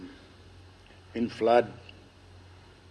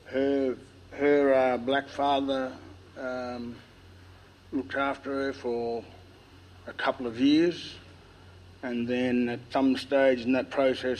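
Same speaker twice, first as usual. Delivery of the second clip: lisping; 3 semitones higher, slower than usual. Real, not acted. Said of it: "Excuse my lisping, and I've got a fairly dry".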